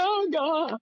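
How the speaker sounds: high, stunned cry of oh God; calling her professor in a high, startled voice; shocked gasp. Retold or imitated. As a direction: act out the shock of discovery. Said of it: "I'm like".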